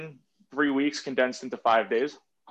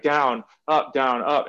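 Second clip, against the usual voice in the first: louder imitation of a count being called; calling count; 4 dB louder, much slower than usual. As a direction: call out each beat like a crew leader. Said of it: "they'll be calling their own thing".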